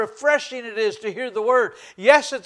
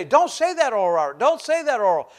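mildly indignant, retold reprimand; mad preachers; faster than usual. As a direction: imitate annoyed preachers telling someone off. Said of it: "preachers used to get mad at him".

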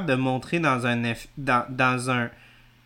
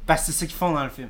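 far from mic; much faster than usual. Real, not acted. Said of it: "je m'éloigne du micro".

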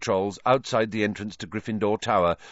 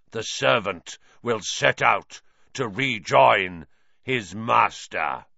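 harsh trance voice. Acted. Trelawney in a trance, prophesying to Harry in a harsh voice. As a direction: intone it as if possessed. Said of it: "in the same harsh voice, quite unlike her own".

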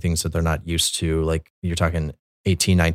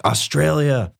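higher, louder call across a crowd; 10 semitones higher, 3 dB louder, slower than usual. Retold or imitated. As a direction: hail them by their country name, falling at the end. Calling out to soldiers.

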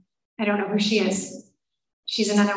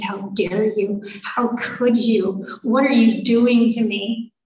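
slow, punched-out indignation, building louder; retold angry screaming; 4 dB louder, slower than usual. Wife turning on husband over rehab, retold angry outburst. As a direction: accuse them word by word, outraged. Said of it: "I got angry again".

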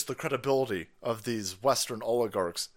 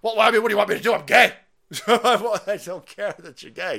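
higher, louder mock official voice; mocking Buttigieg; 5 semitones higher, 9 dB louder than usual. Mocking the secretary dodging the question, higher and louder. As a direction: play the dodging secretary with a nervous laugh.

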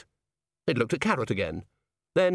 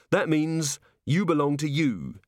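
slow, gentle encouragement; encouragingly; 5 semitones higher than usual. A narrator's reading. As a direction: coax the golem kindly. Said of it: "said Carrot encouragingly".

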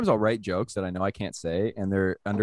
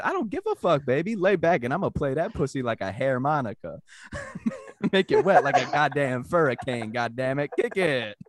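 put-on swaggering Black American accent, pitched up; imitated Black American accent; 5 semitones higher than usual. Comic performs his joke for friends, imitated Black American accent. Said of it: "you read it with a black accent".

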